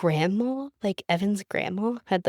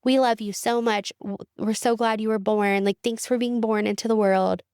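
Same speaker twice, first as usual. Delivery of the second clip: mocking in-laws' card; 3 semitones higher than usual. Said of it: "but it was like".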